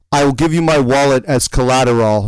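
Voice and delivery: imitated European-ish accent. Stranger offering wallet as collateral, European accent. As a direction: attempt at a Russian-like accent. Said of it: "a heavy European-ish accent".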